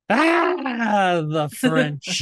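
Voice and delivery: hammed-up Welles with a laugh; Orson Welles impression. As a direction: put on a pompous Welles accent. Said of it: "I can do Orson Welles".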